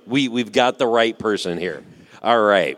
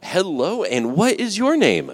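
announcer voice; 5 semitones higher than usual. Acted. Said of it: "Can I start using my announcer voice?".

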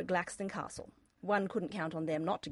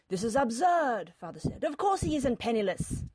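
indignant protest; 4 semitones higher, 6 dB louder than usual. A narrator's reading. Father rejecting Olivia's excuse, indignant. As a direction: object forcefully as the father.

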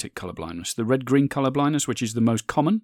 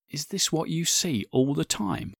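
higher, slow, hushed wonder close to tears; voice breaking; 5 semitones higher, 3 dB quieter than usual. Retold or imitated. Man seeing colour for the first time, voice breaking. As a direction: imitate a man overcome with emotion. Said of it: "a voice that's breaking with those emotions".

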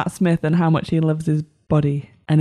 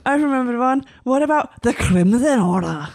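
fake Yorkshire accent; 5 semitones higher than usual. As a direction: talk in a hammed-up Yorkshire accent. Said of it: "this is your fake Yorkshire accent again".

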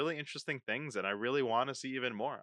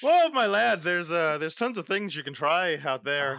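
hammed-up Irish lilt; Irish accent; 3 dB louder than usual. Podcast host greeting his co-host as a lad, in a put-on Irish accent. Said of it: "why do an Irish accent?".

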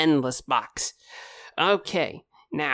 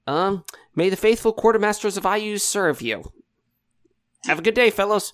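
quartermaster voice; 7 semitones higher than usual. Acted. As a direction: bid them a grand farewell. Quartermaster NPC blessing farewell.

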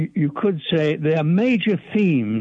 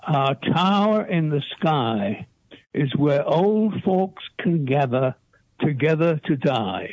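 slow, measured haiku reading; hushed sparse haiku; slower than usual. Acted. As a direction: recite the poem slowly and evenly. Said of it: "the haiku is called Closer to Thee".

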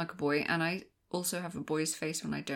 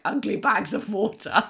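mock insult; 3 semitones higher, 6 dB louder than usual. Alien insults quoted.

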